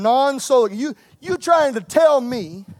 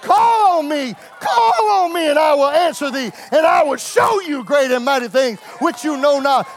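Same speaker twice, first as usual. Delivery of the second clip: preaching at full force; 2 semitones higher than usual. Acted. Preacher crying out God's promise to the church. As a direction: call it out to the congregation.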